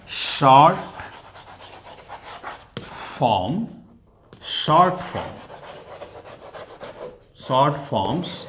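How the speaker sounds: very slow, word by word; spaced-out dictation of the rule. Shown as a demonstration. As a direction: dictate slowly so students can write. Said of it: "dictating the rule".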